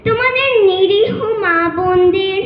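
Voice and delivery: impassioned, measured declamation with ringing phrases and long pauses; poem recitation. Acted. Student reciting to judges a poem rallying young protesters, impassioned declamation. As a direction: recite a rousing protest poem, line by deliberate line. আবৃত্তি করছি কবি.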